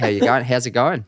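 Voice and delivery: lightly put-on Aussie greeting; playful mock-Australian; Australian accent. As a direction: try an Australian hello. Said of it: "have to speak in an Australian accent".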